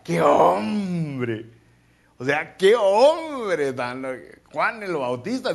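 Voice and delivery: loud, slow, emotional cry of admiration; a preacher overwhelmed with awe at John the Baptist; fervent exclamation. Real, not acted. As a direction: marvel out loud, voice catching.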